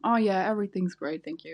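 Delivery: flat uninterested reply; monotone. Shown as a demonstration. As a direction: say it flat, wanting out. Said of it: "the very monotone".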